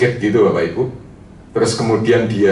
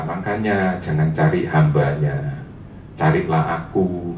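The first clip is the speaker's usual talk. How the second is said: softer, slower, lower divine reassurance; gentle voice of God; 5 semitones lower, 5 dB quieter, slower than usual. Retold or imitated. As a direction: speak as God, tender and slow. (Tuhan berbicara lembut dan pelan)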